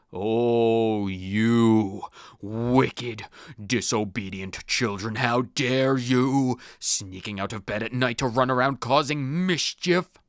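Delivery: low, stern ghost scolding; a strict ghost telling off children; ghostly teacher. Acted. Ghost scolds the sneaking children, stern low voice. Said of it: "what was that voice".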